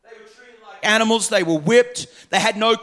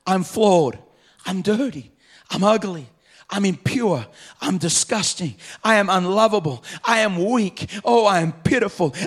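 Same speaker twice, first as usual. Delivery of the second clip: words of shame. Retold or imitated. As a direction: speak each shame word like a verdict. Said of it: "Things like this".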